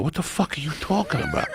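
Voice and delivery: high, breaking into laughter; can't believe it, cracking up; laughing disbelief. Retold or imitated. Comic retelling his disbelief to mom while laughing. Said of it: "And I go".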